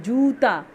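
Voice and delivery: जूता with जू pressed and held, joo-ta; long stressed u. Shown as a demonstration. Teacher modelling जूता for pupils, pressing the long u. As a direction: lean on जू in जूता. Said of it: "जू पे हमें दबाव डालना पड़ रहा है".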